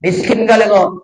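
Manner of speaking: mock scornful snap. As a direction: fling the words down at him. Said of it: "dia bentak".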